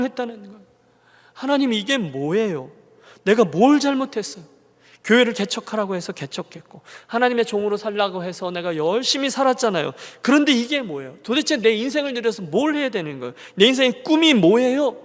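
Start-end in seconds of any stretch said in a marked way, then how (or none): 1.3-4.4 a retold plea that turns into a cry; anguished outcry. Pastor cries out to God in his car, retold anguish. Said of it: "기도라기보단 절규죠". 10.2-15.0 그런데 punched, higher and louder in a retold wail; a protest flung at God; anguished outcry. Pastor protests to God in the car, rising outcry. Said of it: "기도라기보단 절규죠".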